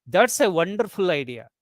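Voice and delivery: "That's a wonderful idea" in one unbroken breath, falling at the end; one tone group. Shown as a demonstration. Teacher shows a pause after the whole sentence, "That's a wonderful idea" as one tone group. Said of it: "this sentence has one tone group".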